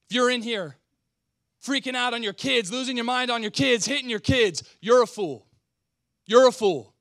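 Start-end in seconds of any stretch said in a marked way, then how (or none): 4.8-7.0 loud, forceful preacher's rebuke; preaching at full force. Real, not acted. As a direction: hammer it home to the dads.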